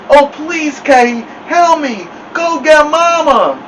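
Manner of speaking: high, loud, drawn-out muffled pleading; mumbled cry. A narrator's reading. Stuck boy begs his brother to fetch Mama, mumbled cry. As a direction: yell with your lips stuck fast. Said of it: "sounded like he had something in his mouth".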